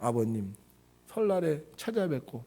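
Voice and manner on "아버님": low, soft, deferential address; acted deference, voice dropped softly; well-bred respect. Child of good family addresses father, low respectful voice. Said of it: "족보 있는 집안 어떻게 해요?".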